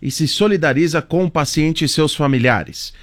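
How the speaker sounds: measured radio reading of an official note; formal broadcast read; news read. Acted. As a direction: read the statement out like a news anchor. Reads the hospital's official note.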